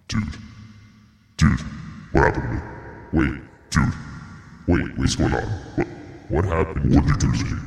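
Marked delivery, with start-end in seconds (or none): 2.1-7.6 panicked. Acted. Panicked after voice changed.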